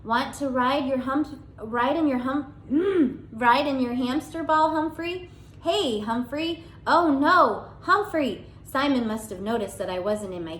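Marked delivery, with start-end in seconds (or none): 0.0-8.5 put-on child calling. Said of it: "Simon's muffled voice".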